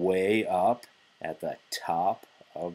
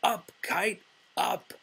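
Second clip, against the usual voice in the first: high, eager call to the kite; mock kite shout; 11 semitones higher than usual. Frog showing Toad how to call up the kite, high. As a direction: cheer the kite upward, high-pitched. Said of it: "He shouted".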